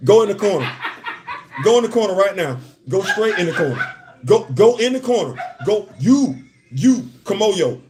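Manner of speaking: hammed-up imitation of a stern scold; mock scolding voice. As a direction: order him into the corner in a lightly voiced impression. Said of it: "You got me acting like".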